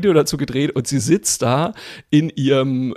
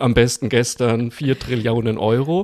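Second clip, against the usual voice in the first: stern demand; 4 dB louder than usual. Pretend. Mock dunning letter voice.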